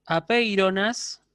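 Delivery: apeironas said slowly, short final alfa; slow demo word. Shown as a demonstration. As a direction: model apeironas slowly for the class. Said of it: "con alfa breve".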